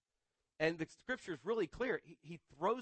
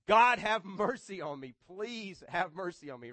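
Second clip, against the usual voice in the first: pleading prayer; 7 dB louder than usual. Acted. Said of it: "The most common prayer is".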